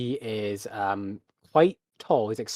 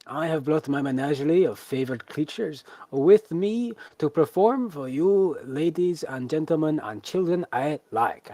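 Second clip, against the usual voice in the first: showman announcing himself; 5 semitones higher than usual. Acted. Beast tamer introducing himself to the crowd, grand showman voice. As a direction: proclaim it like a circus ringmaster.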